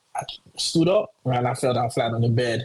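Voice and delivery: ordinary talk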